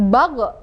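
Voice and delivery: ba, ge with a qalqalah bounce; bounced gho. Shown as a demonstration. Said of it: "Itu beda lagi".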